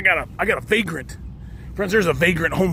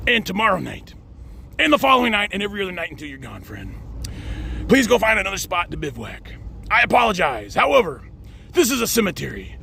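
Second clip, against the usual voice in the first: reading a note aloud. Acted. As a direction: read the letter out with stiff courtesy. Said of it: "I'm gonna read you the nice little note".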